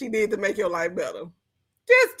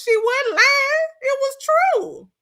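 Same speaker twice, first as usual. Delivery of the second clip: mock agreement; 13 semitones higher than usual. Host mock-solemn agreement, high.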